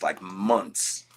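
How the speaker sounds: ordinary talk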